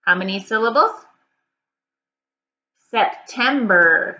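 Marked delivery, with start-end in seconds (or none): 2.9-4.2 "September" stretched slowly into Sep, tem, ber; slow, measured "September" for clapping out; syllable by syllable. Shown as a demonstration. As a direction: sound out "September" one beat at a time. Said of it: "break it into syllables".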